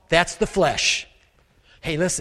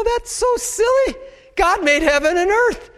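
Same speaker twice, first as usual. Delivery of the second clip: scoffing certainty; 13 semitones higher than usual. Retold or imitated. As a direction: laugh off the teacher, then state it plainly. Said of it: "They go".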